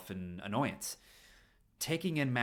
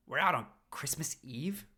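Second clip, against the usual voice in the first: breathy surprised whisper, higher; hushed whisper; 6 semitones higher than usual. Acted. Richie whispering his surprise to Paul. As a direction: whisper it in disbelief.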